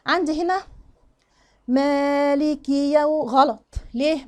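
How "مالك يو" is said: very slow "مالك" with the vowel overstretched; overlong madd. Shown as a demonstration. Teacher shows the excess lengthening, dragged out. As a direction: drag the vowels of "مالك" too long. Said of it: "ما ينفعش أمد المد هنا زيادة".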